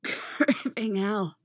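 slow, breathless awe; wrecked and reverent. Acted. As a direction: drag it out, spent and reverent. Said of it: "halfway between wrecked and reverent".

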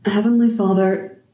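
voice cracking. Acted. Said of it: "His voice cracked on the words".

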